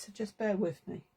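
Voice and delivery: breath caught before a sneeze; about to sneeze. Real, not acted. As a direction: speak softly while holding back a sneeze. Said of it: "I'm gonna sneeze".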